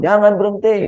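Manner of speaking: very loud yell. Retold or imitated. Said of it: "Saya teriaknya kencang banget".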